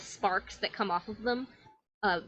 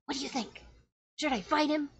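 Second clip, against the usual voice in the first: put-on lightly higher kid voice; child asking; 6 semitones higher, 3 dB quieter, faster than usual. Child asking Ahsoka for advice, eager kid voice. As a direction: ask like an eager little kid. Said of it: "this child goes".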